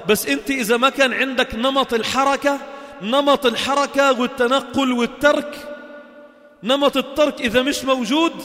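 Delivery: emphatic preaching. Acted. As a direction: press the point home slowly.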